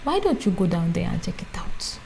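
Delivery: lightly voiced mother with an African accent; African mother's accent. Mimicking mom suggesting a deli job, African mother's accent. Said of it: "I can even say it in my African mother's accent".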